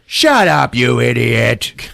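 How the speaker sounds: mock angry cop. Voicing cop scolding barking dog.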